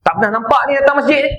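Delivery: mildly imitated scolding; a hint of an irritated regular; mock angry question. Man scolding a newcomer at the mosque, mild mock anger. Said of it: "Oh, dia marah".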